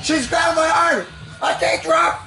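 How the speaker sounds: panicked shout. Real, not acted. Dog holding his arm.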